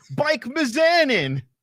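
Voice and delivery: high, slow, stretched-out ring announcer call.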